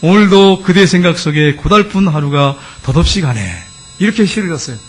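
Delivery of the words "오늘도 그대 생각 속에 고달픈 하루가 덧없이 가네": poem recital. Retold or imitated. Husband reciting his poem for his beloved wife, slow declamation. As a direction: declaim a devoted love poem, drawing out the words. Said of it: "그 아내를 위해서 시까지 졌어요".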